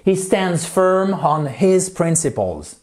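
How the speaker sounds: "He stands firm on his principles." read slowly and clearly; slow model sentence. Shown as a demonstration. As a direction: read it slow for learners to copy. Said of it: "model sentence". (lecture lente de la phrase modèle)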